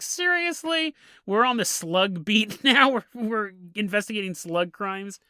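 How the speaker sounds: amused disbelief at slug crimes; incredulous cops. Retold or imitated. Cops' incredulous reaction.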